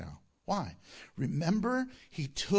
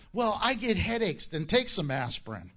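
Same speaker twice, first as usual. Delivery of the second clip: mock excuse. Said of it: "I hear all the excuses".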